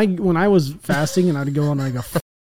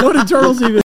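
turtle voice; 6 semitones higher, 6 dB louder than usual. Pretend. Imagining being a talking turtle.

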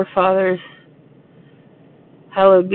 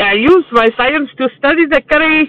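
mock Indian accent; 4 semitones higher than usual. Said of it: "there's an Indian guy".

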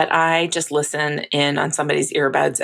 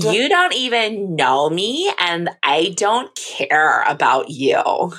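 put-on Valley Girl voice; much slower than usual. Shown as a demonstration. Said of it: "a Valley Girl voice".

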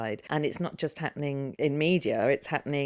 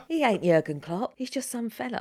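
put-on London accent; 6 semitones higher than usual. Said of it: "we can use that from anyone else".

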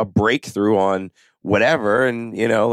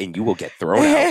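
laughing at the joke; amused laughing. Real, not acted. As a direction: chuckle through it. Joking, laugh heard.

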